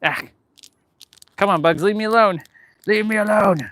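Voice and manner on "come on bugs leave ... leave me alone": higher, whiny plea to go away; pleading with the bugs, pitched up; shooing bugs. Real, not acted. Vlogger shooing bugs off her face, whiny high plea.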